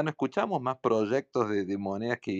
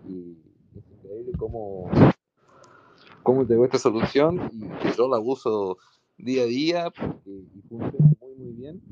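muffled mic; 6 dB louder than usual. Real, not acted. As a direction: voice muffled and cutting out.

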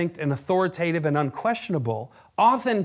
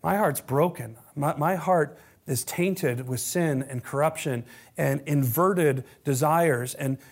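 lowered, pleading prayer voice; humble confession. Shown as a demonstration. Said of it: "This is what authenticity sounds like".

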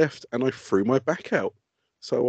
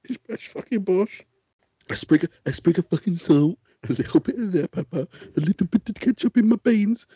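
mock Jamie Oliver; 4 semitones higher than usual. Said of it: "no better than Jamie Oliver".

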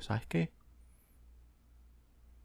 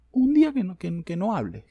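higher, louder exasperated plea; 4 semitones higher, 4 dB louder than usual. Real, not acted. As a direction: burst out in exasperation. Pleading rant.

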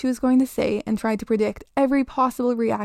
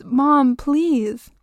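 high, urgent plea; pleading child; 4 semitones higher, 5 dB louder than usual. A narrator's reading. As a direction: beg your mother, upset. Child begging mother.

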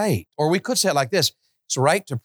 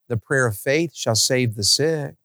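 casual; 5 semitones lower, slower than usual. Retold or imitated. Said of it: "he says it like it's casual".

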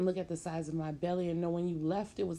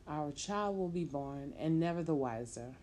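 pleading, excited. Acted. Pregnant woman begging her man, eager and raised. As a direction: talk him round before he walks away.

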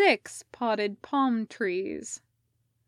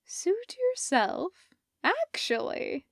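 sighing; 9 semitones higher than usual. Acted. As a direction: let it go with a sigh. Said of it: "Sophie sighed".

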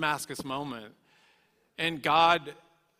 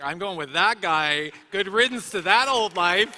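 joyful declaration; 4 semitones higher, 10 dB louder than usual. Retold or imitated. Retold decision to follow Jesus.

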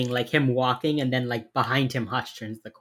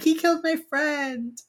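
high-pitched protesting cry; distraught outburst; 13 semitones higher than usual. Retold or imitated. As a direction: plead your case as you're dragged off. Anna grabbed after macing him.

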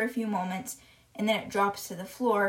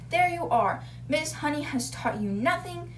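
high-pitched mock accusation; acted indignant scolding; accusing; 4 semitones higher than usual. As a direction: condemn the teacher as a haughty headmistress. Headmistress accuses the teacher.

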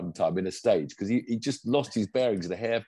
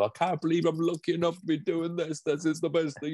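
higher, mock Irish accent, overjoyed; Craig Breen Irish accent; 9 semitones higher than usual. Podcaster imitates a tearful rally driver, higher mock Irish accent. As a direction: put on an Irish accent, pitched up, gushing with joy. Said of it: "what was with that accent?".

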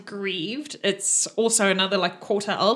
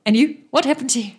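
eager questioning; 2 semitones higher, 5 dB louder, faster than usual. Acted.

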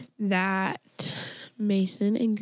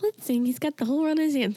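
higher, faster mock speech-device little girl; computer girl voice; 6 semitones higher, faster than usual. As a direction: play the odd synthetic child's voice. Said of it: "supposedly a little girl voice".

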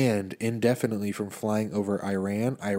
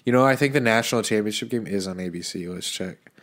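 stuffy nose voice; talking through a blocked nose. Real, not acted. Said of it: "I sound like this".

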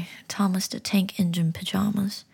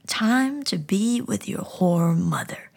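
snarling; 4 dB louder, slower than usual. Acted. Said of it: "he snarled".

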